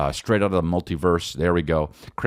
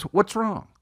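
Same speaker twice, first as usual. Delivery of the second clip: lightly voiced little boy; Calvin; 12 semitones higher than usual. Son asking crying dad, high child voice. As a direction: ask it high, like a small child. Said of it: "Calvin looks at me and he says".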